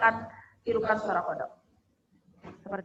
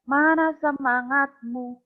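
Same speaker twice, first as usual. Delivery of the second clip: drawn-out call; 3 semitones higher, 4 dB louder, slower than usual. Shown as a demonstration. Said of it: "Nanti ketika saya bilang".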